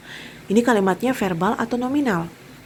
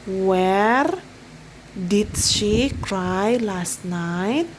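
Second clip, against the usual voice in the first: slow model sentence; much slower than usual. Shown as a demonstration.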